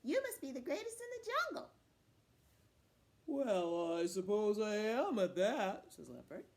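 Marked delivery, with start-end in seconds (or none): 0.0-1.7 high, eager cat voice full of admiration; butter up a big hunter, pitched high; flattering cat. Acted. Cat buttering up Leopard as greatest hunter, high and admiring. 3.3-5.9 slow, loud, self-satisfied big-cat drawl; pleased leopard. Acted. Leopard pleased at Cat's praise, slow and loud.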